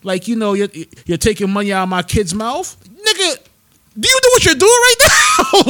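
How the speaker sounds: builds to a laughing yell; mock shouted argument. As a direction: climb to an incredulous laughing shout. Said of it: "I'm like".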